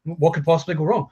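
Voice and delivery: high-pitched eager "ooh", then easing off; mock eagerness. Website owner dazzled by an offer of money, mock eager. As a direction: play the gullible mark lightly.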